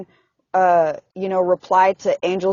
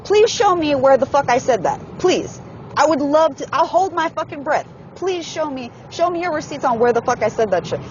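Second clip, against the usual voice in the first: heated, higher-pitched demand for proof; confrontational challenge; 5 semitones higher than usual. Acted. Imagining facing the accuser, confrontational. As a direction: challenge them with exasperated, pleading sarcasm. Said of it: "wish I could, like, face to face".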